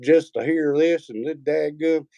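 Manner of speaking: high, slow incredulous rant; mock disbelief. Recalling his shock on first hearing Tennessee talk, slow and high. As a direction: sound amazed at the accent. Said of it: "and I'm like".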